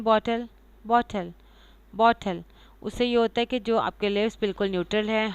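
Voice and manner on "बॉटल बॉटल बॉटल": बॉटल repeated with neutral, half-open lips; बॉटल said separately and carefully for repetition; repeat-after-me model. Shown as a demonstration. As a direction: model बॉटल for learners, falling each time. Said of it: "आप बोल के देखें".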